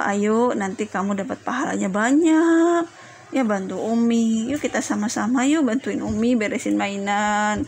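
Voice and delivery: put-on kindly persuading a child to help; mild, encouraging invitation; gentle coaxing. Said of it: "dinasehati dengan baik, dengan lembut".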